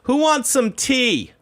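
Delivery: put-on high, slow quavering old lady; a very old aunt offering tea she can't make; imitating a ninety-eight-year-old aunt; frail old aunt. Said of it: "she goes".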